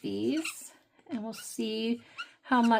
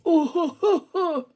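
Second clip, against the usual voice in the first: laughing squeamish ooh; 9 semitones higher, 8 dB louder than usual. Real, not acted. Recoiling from magic eraser feel.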